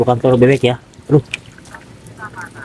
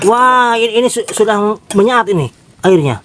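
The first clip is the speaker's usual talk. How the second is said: alarmed; 6 semitones higher than usual. Real, not acted. Noodle water boiled away, panic.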